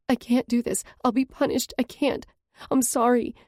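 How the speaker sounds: high, panicky outburst; a scared girl backing out; frightened cry. A narrator's reading. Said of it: "She lets go of my hand and cries".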